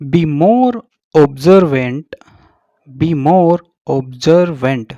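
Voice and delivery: "observant" said slowly and loudly with a z sound, ob-ZER-vent. Shown as a demonstration. Teacher models the moral for students, observant with a z. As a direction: stretch out "observant", voicing the s as z. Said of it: "इसको सर नहीं बोलेंगे".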